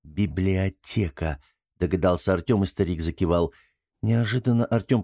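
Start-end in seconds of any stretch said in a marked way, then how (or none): 0.0-1.4 drawn out, syllable by syllable; slow, careful word; slow guess. Acted. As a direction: sound it out slowly, piecing it together. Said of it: "и каждый раз более медленно".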